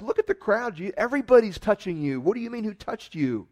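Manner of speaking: disciples exasperated. Retold or imitated. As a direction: play the disciples, incredulous at the question. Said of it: "the disciples are like".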